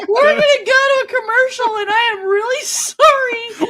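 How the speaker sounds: helpless laughing fit; sorry through giggles. Real, not acted. Laughing fit, can't read.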